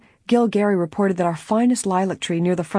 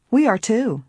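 higher, pleased agreement; smiling reply; 6 semitones higher, 3 dB louder than usual. A narrator's reading. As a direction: agree with a smile in the voice. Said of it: "Nancy smiled".

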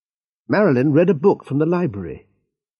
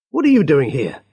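sharp, louder demand; angry; 3 semitones higher, 5 dB louder than usual. Acted. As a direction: confront the strangers angrily. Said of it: "said Rick angrily".

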